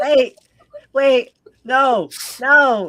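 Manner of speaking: screaming with excitement. Mid-game, about to apologize for it afterwards, excited screaming. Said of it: "I'm sorry for screaming".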